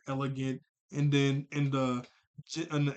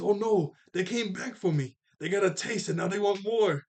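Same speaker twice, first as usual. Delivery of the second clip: mock dread; 5 semitones higher, 4 dB louder than usual. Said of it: "he was pretty funny".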